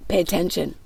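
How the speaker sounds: 1 Holy Spirit speaking softly. Retold or imitated. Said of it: "The Holy Spirit said".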